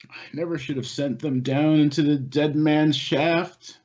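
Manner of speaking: high, slow, grief-stricken lament; remorseful old miner. Acted. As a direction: choke out the self-blame. GM voices grieving Garrick.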